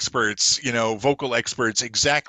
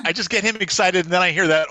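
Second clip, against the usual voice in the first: ordinary delivery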